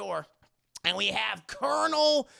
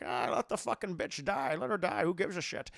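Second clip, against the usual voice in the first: Sean Connery; 4 dB quieter than usual. Retold or imitated. Father shrugs off the hostage, dismissive impression. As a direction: wave it off with slushy s. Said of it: "fucking Sean Connery's like".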